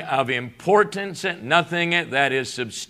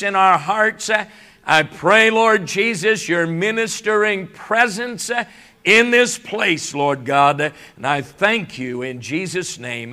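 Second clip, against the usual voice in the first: prayer; 2 semitones higher than usual. Acted. Pastor prays before sermon.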